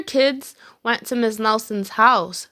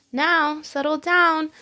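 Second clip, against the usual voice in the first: sweet voice; 6 semitones higher than usual. A narrator's reading. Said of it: "said Miss Nelson in a sweet voice".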